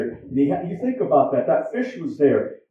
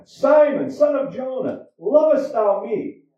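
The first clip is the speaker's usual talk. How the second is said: pleading third ask; 6 semitones higher than usual. Acted. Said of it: "Peter was grieved because he said unto him the third time".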